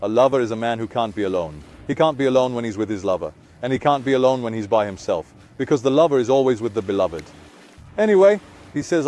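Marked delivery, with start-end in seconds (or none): none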